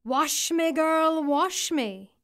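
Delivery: put-on high eerie plea, rising on girl; eerie creature voice. A narrator's reading. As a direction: call up from the water like a strange creature. Second head in the stream.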